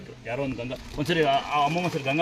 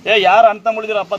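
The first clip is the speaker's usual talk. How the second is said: higher and louder call to the men; loud appeal; 5 semitones higher, 12 dB louder than usual. Real, not acted. Giver calls loudly on brothers in the crowd. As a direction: call out to all the brothers present.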